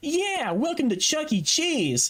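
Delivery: very nasal, high-pitched mascot character voice. Describing a streamer's puppet stream, contrasting voices: Chuck E. Cheese voice. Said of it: "the voice of Chuck E. Cheese that sounds like".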